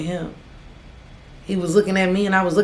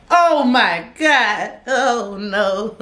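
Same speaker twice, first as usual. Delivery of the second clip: mock panic; 3 semitones higher, much slower than usual. Teller panicking as the sheriff walks in, mock wailing. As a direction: wail it like doom just walked in.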